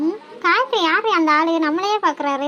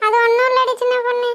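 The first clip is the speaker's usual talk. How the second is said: hurt, slightly raised crying voice; tearful complaint; 3 semitones higher than usual. Acted. Wife tells her friends about last night's fight, tearful. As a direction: pour out the trouble through mild tears. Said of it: "இதா, அழுகாம சொல்லு".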